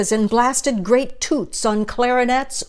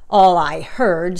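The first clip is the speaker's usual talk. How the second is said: snapped; 2 semitones lower, 4 dB louder than usual. Acted. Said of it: "snapped the big kangaroo".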